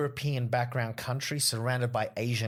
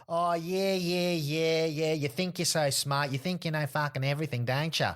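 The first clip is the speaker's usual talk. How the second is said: mock drunk heckler; 4 semitones higher than usual. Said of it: "He goes".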